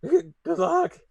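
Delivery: high, loud gruff farewell; gruff growly voice. Acted. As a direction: bark it out as the fleeing werewolf. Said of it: "And he's like".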